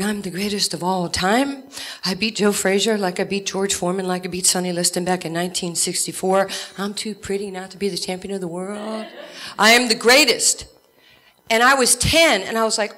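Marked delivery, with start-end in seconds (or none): 0.0-10.7 light boastful Ali impression, big finish; a hint of Ali trash talk; Muhammad Ali. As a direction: brag like the champ, swelling at the end. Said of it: "he said".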